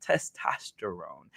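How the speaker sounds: slow down for the hard word "Testosterone"; slow and careful. Shown as a demonstration. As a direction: say "Testosterone" slowly and carefully, one piece at a time. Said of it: "I have to go really slow when I say that".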